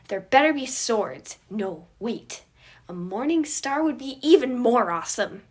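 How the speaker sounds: put-on loud, high, eager little boy; excited kid voice. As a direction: demand it like a thrilled child.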